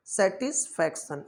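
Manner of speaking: सेटिस्फैक्शन put back together after splitting it into sa-tis-fac-tion; teacher joining syllables. Shown as a demonstration. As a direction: blend the parts of सेटिस्फैक्शन. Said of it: "एक साथ मत पढ़ा करें, separate करके".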